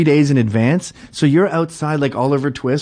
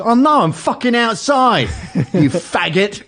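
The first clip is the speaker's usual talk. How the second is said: much higher and louder, breaking into a laugh at the end; imitated angry taunt; 9 semitones higher, 4 dB louder than usual. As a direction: spit the taunt, cracking up. Clerk threatening outside.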